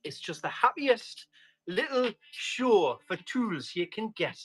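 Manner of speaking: lilting Geordie with big pitch swings; hammed-up Geordie patter; Geordie accent. Shown as a demonstration. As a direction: put on a drawn-out, friendly Geordie. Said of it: "favourite accent has got to be Geordie".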